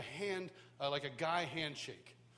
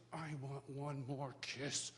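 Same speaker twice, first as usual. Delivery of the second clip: tender request; 3 semitones lower, 5 dB quieter, slower than usual. Retold or imitated. Dad tenderly asks for a kiss.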